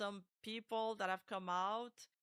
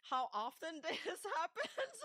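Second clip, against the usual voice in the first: imitating her soft breathy-voiced line, higher; laughing through a mock quote; 8 semitones higher than usual. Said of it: "and then she goes on".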